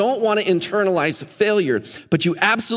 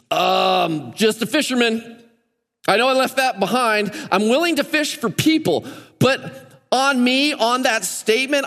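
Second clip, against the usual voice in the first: voicing Peter; 5 semitones higher than usual. Voices Peter's humble reply.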